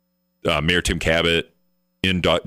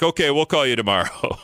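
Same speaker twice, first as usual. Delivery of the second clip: mock phone rep; 8 semitones higher than usual. Mimicking the rep giving in.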